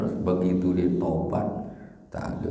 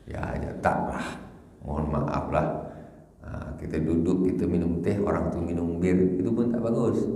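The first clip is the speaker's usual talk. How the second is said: polite refusal. Retold or imitated. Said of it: "kata dia".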